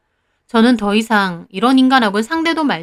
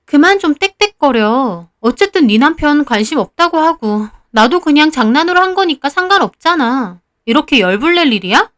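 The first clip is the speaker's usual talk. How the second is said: acted defensive annoyance, a little raised; indignant anger; 3 semitones higher than usual. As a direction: brush off the accusation angrily. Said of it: "지가 더 화내고 팔짝 뛰더군요". (적반하장으로 화내는 연기)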